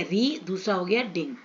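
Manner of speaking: name each syllable distinctly, "री", then "डिंग"; counting out syllables. Shown as a demonstration. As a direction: set off "री" and "डिंग" as separate beats. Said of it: "एक syllable हो गया".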